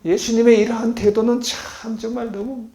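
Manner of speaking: ordinary delivery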